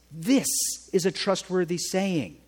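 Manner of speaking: emphatic scripture quote, This stressed. Shown as a demonstration. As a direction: hit the word This hard. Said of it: "the emphasis on the right syllable".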